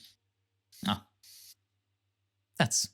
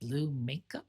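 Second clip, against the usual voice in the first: put-on high, fussy old sister; shrill old nun; 5 semitones higher than usual.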